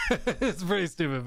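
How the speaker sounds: laughing at something stupid; real laughing admission; amused laughter. Real, not acted. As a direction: break up laughing, then talk through it. Laughing at his silly song.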